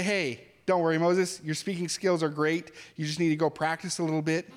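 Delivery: hammed-up friendly encouragement; mock cheerful pep talk. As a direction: play a chummy coach brushing off worries. Mock pep talk God doesn't give.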